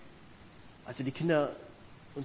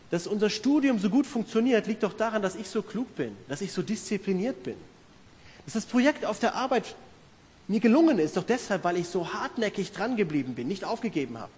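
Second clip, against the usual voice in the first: smug boasting; 3 semitones higher, 3 dB louder than usual. Retold or imitated. Preacher mimicking a self-satisfied listener, boastful. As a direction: puff yourself up, mock-proud.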